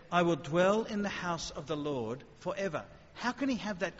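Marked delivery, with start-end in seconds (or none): 0.1-2.8 quoting the psalm. Acted. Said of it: "David says".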